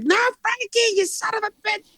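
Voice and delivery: high pleading movie-mobster voice; pleading gangster. Retold or imitated. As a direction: beg like a man about to be buried. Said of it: "And he's like".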